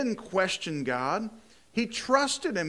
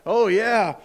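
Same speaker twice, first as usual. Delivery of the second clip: mock cheerful sarcasm, a little louder; sarcastic; 3 semitones higher, 5 dB louder than usual. Paul dreading the rod, in mock cheer. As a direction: fake enthusiasm about another beating. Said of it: "He's like".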